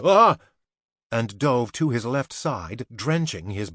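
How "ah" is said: sharp high startled yelp; startled cry. A narrator's reading. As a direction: jump at the shock. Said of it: "blurted out a startled".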